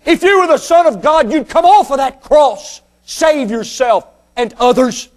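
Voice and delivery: retold jeer, rising in pitch midway; preacher acting out mockery; mocking. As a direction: taunt like a scoffer in a crowd. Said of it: "begin to mock Him and say".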